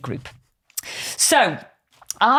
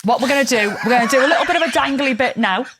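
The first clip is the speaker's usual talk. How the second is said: laughing; 2 semitones higher, faster than usual. Real, not acted. Giggling through the intro.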